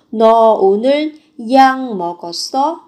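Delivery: "약 먹었어" said as yang-meogeosseo; nasal ng ending on "약" before "먹었어"; biến âm. Shown as a demonstration. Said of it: "Thì đây cũng thế". (đọc "약" thành yang trước "먹었어")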